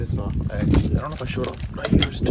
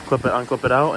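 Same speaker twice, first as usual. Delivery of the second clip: shouting over engine; 2 semitones higher, 4 dB louder than usual. Real, not acted. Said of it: "hopefully you can hear me over the engine".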